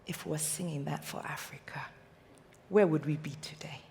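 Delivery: soft, whispered wish; quiet, wistful whisper; hushed. Real, not acted. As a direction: whisper it like a dream. Closing wish for Africa.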